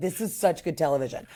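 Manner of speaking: ordinary talk, nothing marked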